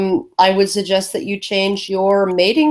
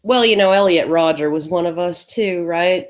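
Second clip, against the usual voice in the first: sarcastic. Pretend. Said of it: "That's sarcasm for everybody".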